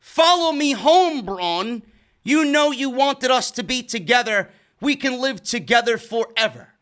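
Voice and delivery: lightly voiced seductive woman. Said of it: "in a very, uh, seductive voice".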